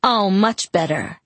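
slow, dry sarcasm; sarcastic snort. Acted. Jacob mocking Bella's reason, slow sarcastic drawl. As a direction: drawl it with a sneer. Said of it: "he snorted".

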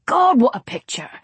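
eager film director with a laugh; pushy producer charm; brash director. Acted. Brady raves.

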